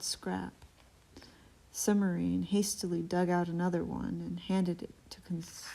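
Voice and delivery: whispered reading. Acted. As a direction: read it in a hushed whisper.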